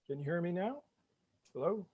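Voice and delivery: very faint voice over a bad connection; speaking from far down a broken line; call dropping out. Real, not acted. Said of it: "You are still muted".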